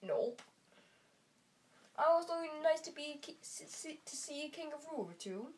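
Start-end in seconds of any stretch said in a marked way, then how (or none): 2.0-5.5 a light attempt at Australian; Australian accent. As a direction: lay on an Aussie twang. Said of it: "Australian? Correct".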